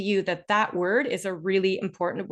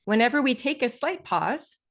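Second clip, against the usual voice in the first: higher start, then a short break after "pause"; slight pause; 4 semitones higher than usual. Shown as a demonstration. Teacher demonstrating a pause to listeners, slight deliberate pause. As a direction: say "slight pause" and stop briefly. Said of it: "like I just demonstrated there".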